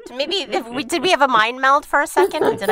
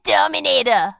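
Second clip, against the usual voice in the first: put-on Arnold accent. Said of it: "saying anything in an Arnold accent".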